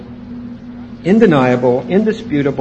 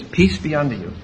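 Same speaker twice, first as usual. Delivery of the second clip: gentle peace; 3 semitones lower, 6 dB quieter than usual. Acted. Jesus greeting the disciples again.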